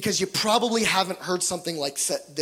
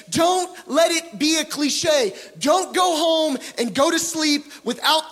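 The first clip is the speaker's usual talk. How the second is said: urgent shout; 6 semitones higher than usual. Real, not acted. Preacher repeats his plea.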